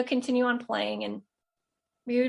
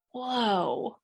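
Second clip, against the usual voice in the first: stunned whoa; 8 semitones higher, 3 dB louder, much slower than usual. Retold or imitated. Recalling son's startling words.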